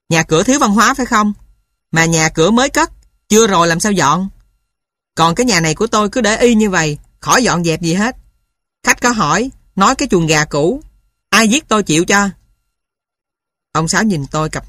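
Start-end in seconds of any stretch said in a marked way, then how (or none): 0.1-1.3 quick, raised angry retort; annoyed retort. Acted. Narrator irritated at Sáu Chí, fast angry retort. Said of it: "Tôi đổ quạo, lớn tiếng". 1.9-12.3 quick, raised irritated rant; mild angry rant. Acted. Narrator venting at Sáu Chí about the house, mild angry rant. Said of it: "Tôi đổ quạo, lớn tiếng".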